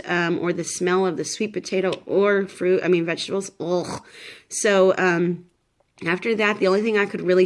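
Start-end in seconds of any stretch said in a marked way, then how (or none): 3.6-4.0 short throaty "ugh" of revulsion; queasy, disgusted noise; disgusted groan. Real, not acted. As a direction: groan at food that turns the stomach. Recalls food aversion to vegetables.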